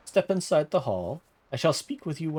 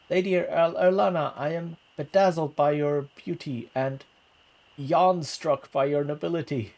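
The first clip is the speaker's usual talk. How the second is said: stammering suitor; 4 semitones higher, 4 dB louder than usual. Acted.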